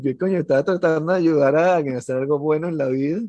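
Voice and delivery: vent, fed up and loud; exasperated rant. Retold or imitated. Exasperated reply to friends. (queja exasperada, más alta)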